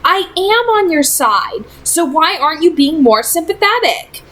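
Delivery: put-on a teen girl pleading with a friend; Clary's voice. A narrator's reading. Narrator voices Clary on phone.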